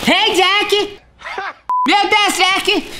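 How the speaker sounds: squeaky high voice from breathing helium; calling the dog in a tiny high helium squeak. Real, not acted. Friend calls Jack after breathing helium, squeaky high voice. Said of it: "A voz fica fina".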